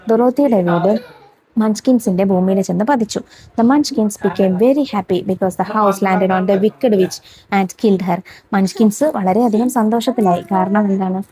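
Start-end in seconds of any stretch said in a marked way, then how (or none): 3.6-8.2 put-on each word read out slowly for young pupils; slow classroom dictation. Shown as a demonstration. Reads story slowly for pupils.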